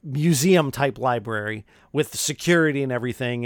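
normal talking voice

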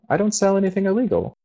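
a shopkeeper squeaking out his innocence; Theb protesting. Acted. Theb protests to the guard, high and fast. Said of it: "you can hear Theb responding".

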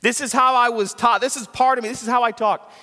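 excuse-making Christian. Retold or imitated. Pastor mimicking a congregant's excuse, mock defensive. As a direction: whine it like a cornered churchgoer. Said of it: "you're using this excuse".

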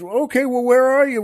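calling out. Acted. Husband searching for the stranger in the rain, calling out. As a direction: holler to find someone unseen.

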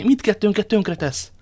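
high, loud, drawn-out protest; alarmed cry. A narrator's reading. Woman warning he will ruin them both, alarmed cry. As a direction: cry out in dismay. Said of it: "kiáltott fel Bonacieux".

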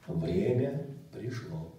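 low, slow, solemn voice from a dream; dreamy distant voice. Retold or imitated. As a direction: draw it out low and slow, like a voice from above. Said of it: "Я даже стараюсь тембр вам передать".

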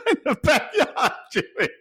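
high-pitched mocking echo through laughter; laughing mimicry. Storyteller laughs at floor guy's lie, high laughing mimicry. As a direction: repeat it high, cracking up.

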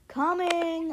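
high called-out answer; yelling back. A narrator's reading. Kid answers mom's dinner call, high yell. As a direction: sing it out high to the next room. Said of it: "I yell".

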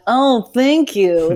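high, slow, loud awkward thank-you; flustered reply to a creepy compliment. Retold or imitated. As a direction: force out an uncomfortable thanks. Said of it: "like, a weird face".

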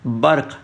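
बर्क़ with a clear nukta q; correct pronunciation. Shown as a demonstration. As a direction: end बर्क़ on a throaty q, not f. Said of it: "लेकिन बर्फ़ नहीं है यहाँ पर".

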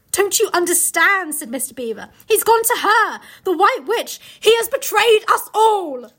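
high, loud, slow grave announcement; dramatic reveal. Acted. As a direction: deliver the betrayal with weight.

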